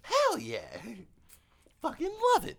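high, loud whooping cheer; excited cheer. Real, not acted. A friend cheering DeMonte on as he tears it up, excited and loud. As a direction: hype him up, yelling.

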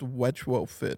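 "Wedge Fit" said as wedge plus fit; joke mispronunciation. Shown as a demonstration. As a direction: say "Wedge Fit" for retrofit, deadpan. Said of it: "I thought it was pronounced".

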